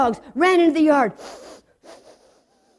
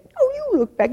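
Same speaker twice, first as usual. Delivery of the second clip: put-on scared child; 11 semitones higher than usual. Children argue who looks back.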